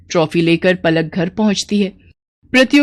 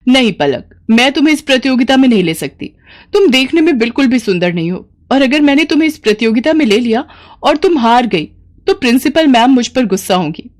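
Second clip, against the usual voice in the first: higher, fast and curt refusal; dismissive teacher; 5 semitones higher than usual. Acted. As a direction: brush the girl off quickly. Teacher refuses Palak coldly.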